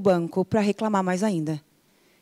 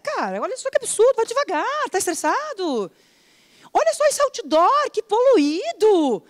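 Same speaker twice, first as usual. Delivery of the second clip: much higher, scornful comments; mock judging; 10 semitones higher than usual. Someone judging a passing cyclist, high and scornful. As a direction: scoff at the cyclist and billboard.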